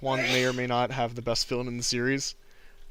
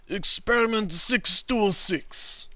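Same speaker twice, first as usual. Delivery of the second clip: mock dramatic announcement; 8 semitones higher, much slower than usual. Announcing Stitch's designation dramatically.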